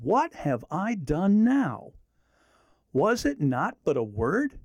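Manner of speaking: slow, gentle reply; calm, measured reply; David answering calmly. Acted. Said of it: "Let me read it again".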